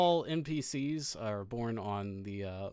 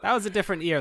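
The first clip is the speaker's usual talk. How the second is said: high cheery voice; 7 semitones higher, 4 dB louder, much faster than usual. Acted. NPC Fumbler.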